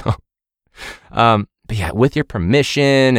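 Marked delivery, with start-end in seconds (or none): 1.9-3.2 performative formal voice. Retold or imitated. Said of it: "seems too performative".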